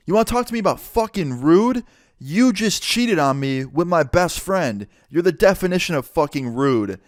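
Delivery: retold outrage, stressing the insult; retold loud outburst. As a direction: throw the accusation back, mildly heated. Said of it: "I said this really loud".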